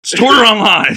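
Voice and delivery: high, loud fake-tearful whine; squealed mock despair; mock wailing plea. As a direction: beg in a hammed-up wail.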